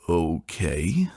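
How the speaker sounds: breathless whisper; whispered okay. A narrator's reading. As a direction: barely voice the word. Father answers softly.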